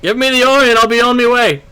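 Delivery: high, loud menacing villain voice; a booming villain making his demand. Acted. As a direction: bark the demand like a towering villain.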